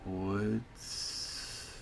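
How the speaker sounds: put-on slow, hushed old woman voice; old lady voice. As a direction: push each word out like a frail old woman. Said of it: "I'm gonna try to do an old lady voice".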